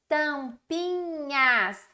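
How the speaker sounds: Tampinhas bem devagar, marcando o s final; slow, stressing s. Shown as a demonstration. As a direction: estique Tampinhas e marque o s. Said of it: "é a letrinha S". (Tampinhas lento com s final)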